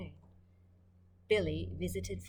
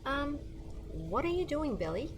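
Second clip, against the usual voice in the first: Dad's voice; 8 semitones higher than usual. Acted. Dad voiced in read-aloud story.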